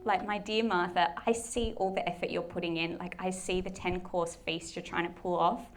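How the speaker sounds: a touch of softness, as if consoling a worn-out friend; tender reassurance. Retold or imitated. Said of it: "missing the heart of what Jesus is saying".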